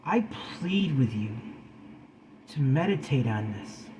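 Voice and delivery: whispered earnest plea; whispering. Real, not acted. Pleading with viewers.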